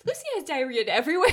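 barely getting it out before the laugh; cracking up. Real, not acted. Reading a daycare voicemail aloud, breaking into laughter. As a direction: try to deliver it while giggles break in. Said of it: "not gonna be able to get it out".

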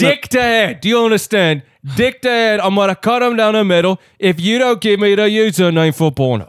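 hammed-up bad British accent; awful British accent. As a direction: put on a terrible British villain voice. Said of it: "awful British accent".

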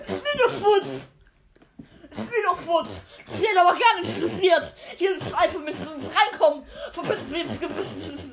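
high, loud, laughing rant; angry granny yell. Acted. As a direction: scream at the dog, laughing. Granny yells at the dog.

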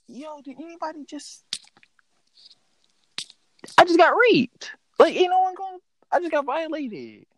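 put-on high voice of a scandalized victim; mock distress. Telling friends he got touched, high mock distress. Acting his shocked reaction to being touched.

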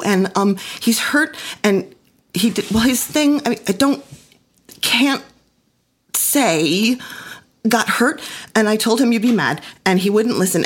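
put-on high, breathless tumbling child voice; frantic child explaining; flustered child. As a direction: babble it like a panicked little girl. Child running to tell mother.

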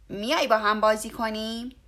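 an eager fox inviting play; cheerful fox. A narrator's reading. Fox invites his friend to play, eager. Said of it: "روباه جواب سلامش را داد و گفت".

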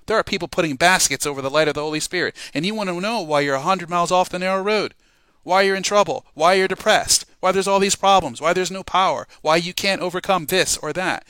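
loud, high, urgent preaching. Real, not acted. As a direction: refuse to whisper, drive it home loud. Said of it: "And I can't whisper that".

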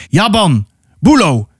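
mild, acted call to companions. Haran calls his hunting companions by name, calling out. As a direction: call the names out without much extra volume. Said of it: "riep Haran".

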